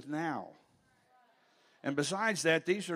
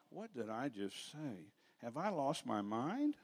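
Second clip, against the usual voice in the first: baffled inner thought; 6 dB quieter, slower than usual. Retold or imitated. Retells his baffled thought to himself.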